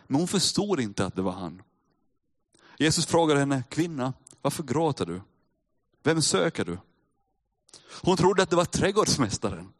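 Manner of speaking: measured Bible reading to the congregation; calm preacher reading scripture. Acted. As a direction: read the passage steadily, letting it land. Reads John 20 aloud.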